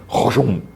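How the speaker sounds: mouthed swooping noise; vocal swallow-up sound effect; imitated whoosh. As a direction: make a quick engulfing whoosh with the mouth. Imitates plant swooping over her.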